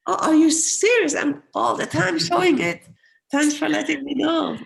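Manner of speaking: high, loud flustered surprise; surprised. Real, not acted. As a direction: caught off guard, embarrassed. Realizes slides were not shared.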